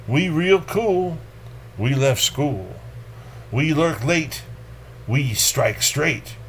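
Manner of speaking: slow, clipped beats per phrase; spaced-out rhythmic recital; poetry reading. Acted. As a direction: land each short line like a drumbeat. Reads We Real Cool.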